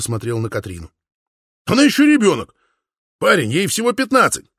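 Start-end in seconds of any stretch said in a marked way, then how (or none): 1.6-4.5 loud protest. A narrator's reading. Father protests loudly.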